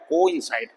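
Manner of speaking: कोइंसाइड with "ko" and "in" apart; careful कोइंसाइड, two distinct vowels; split vowel sound. Shown as a demonstration. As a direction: separate the o from the i in कोइंसाइड. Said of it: "अलग अलग sound है".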